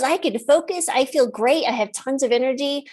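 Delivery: imitating an upbeat teen; retold enthusiasm. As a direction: gush lightly as the delighted patient. Teen's enthusiastic account, retold.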